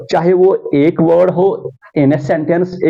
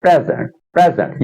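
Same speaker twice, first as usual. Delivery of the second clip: प्रेजेंट said PREZ-ent, twice; stress on PRE; faster than usual. Shown as a demonstration. Teacher showing where stress sits, on PRE. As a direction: hit PRE, let zent fall in प्रेजेंट. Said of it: "पी पे stress है".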